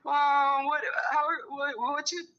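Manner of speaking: mocking ex. He hits me up.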